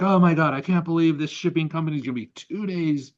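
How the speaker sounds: mock panic over a late shipment; upset employee. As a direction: play the flustered worker. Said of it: "He's like".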